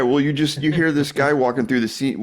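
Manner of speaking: normal talking voice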